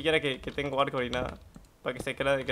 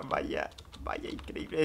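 whispered; 2 semitones lower, 8 dB quieter, much slower than usual. Acted. Repeats as a whisper.

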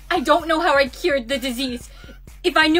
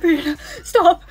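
laughing through tears; 4 dB louder than usual. Acted. Tells herself to stop laughing.

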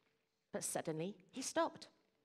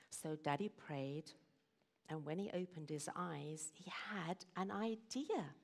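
hushed suspense; 7 dB quieter than usual. A narrator's reading. Storyteller reveals Daddy's idea after praying, hushed whisper. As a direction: whisper it like a secret being revealed.

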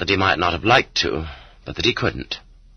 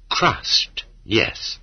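a sudden breathy whisper, pitched up; whispered word; 4 dB quieter than usual. A narrator's reading. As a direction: let the word drop to a bare whisper for weight. Dramatic hushed word in history reading.

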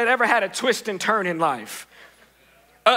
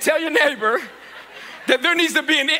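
laughing; 3 semitones higher, faster than usual. Real, not acted. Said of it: "I'm used to saying long statements".

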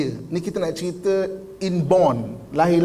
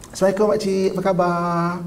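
friendly greeting. Shown as a demonstration. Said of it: "orang akan nampak kita mesra".

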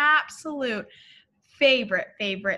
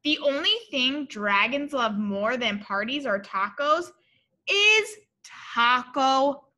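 lively, sing-song storybook read-aloud; bright read-aloud for little kids; reading to children; slower than usual. A narrator's reading. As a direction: read it like a picture book to a class.

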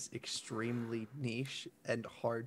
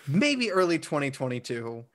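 exasperated reasoning; 3 semitones higher, 5 dB louder than usual. Retold or imitated. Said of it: "I'm like".

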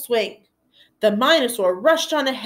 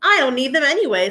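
defiant sulk; 4 semitones higher, 4 dB louder, faster than usual. Acted. Sulky bravado.

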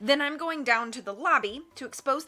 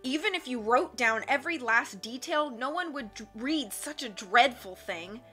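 scornful; 3 semitones higher than usual. Acted. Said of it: "Count Olaf said scornfully".

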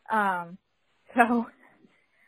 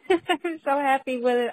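happy; 4 semitones higher, 5 dB louder than usual. Real, not acted. Joy after braces removed.

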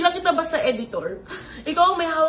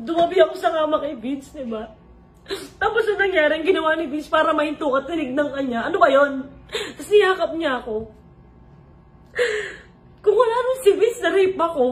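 crying; 3 semitones higher than usual. Real, not acted. Recalling how Vince stopped him.

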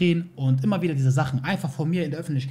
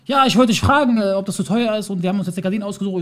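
higher, louder imitation of the wife asking; whiny put-on wife; mock wife voice; 4 semitones higher, 4 dB louder than usual. Husband imitating his wife asking about the price, higher and louder.

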